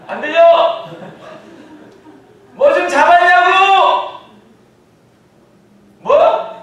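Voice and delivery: high, loud calls traded across water; shouting back and forth. Acted. Jesus and disciples yelling across the lake. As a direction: bellow over the distance.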